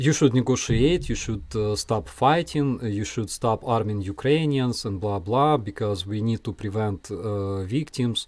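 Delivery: mock Russian-accented pleading, rather soft. Imitating a first-level Russia supporter urging negotiation, in a light Russian accent. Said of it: "I don't know why I used Russian accent speaking this".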